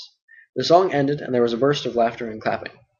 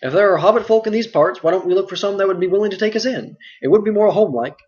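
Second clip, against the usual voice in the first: a lightly raised hobbit voice, eager to find kin; voiced a little higher as a hopeful hobbit; Sam's voice; 6 semitones higher, 3 dB louder than usual. Sam speaks in the story.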